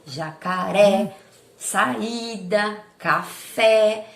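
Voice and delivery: jacaré, saída, café with the accented É, Í, É opened wide and stressed; open accented vowels. Shown as a demonstration. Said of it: "me dá uma pronúncia aberta".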